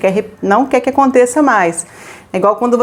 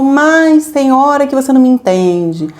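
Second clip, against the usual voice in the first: slow complaint; 2 semitones higher, slower than usual. Shown as a demonstration. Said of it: "você fala assim".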